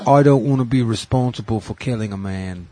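lightly voiced rock singer with Kennedy vowels; botched British rocker impression; terrible impression of the singer. Mock-quoting a rock singer on his drummer, terrible impression. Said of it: "that was a terrible John Kennedy trying to be Aussie".

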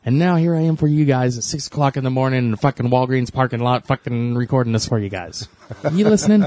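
hammed-up grumbling comic; irate Bill Burr. Friend imitates Bill Burr griping to his listeners, mock irate. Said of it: "he's pretty irate most of the time".

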